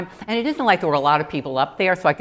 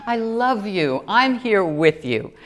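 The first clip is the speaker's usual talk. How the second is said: gentle God voice; 4 semitones higher, slower than usual. Retold or imitated. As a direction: comfort her gently. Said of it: "like God was saying".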